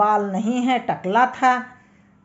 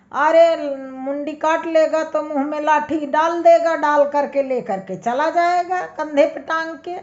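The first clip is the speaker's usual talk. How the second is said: angry outburst; 5 semitones higher than usual. Acted. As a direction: fire it back at the judge, hot-headed. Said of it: "उसको बहुत तेज गुस्सा आई". (गुस्से में ऊँची आवाज़ में चिल्लाना)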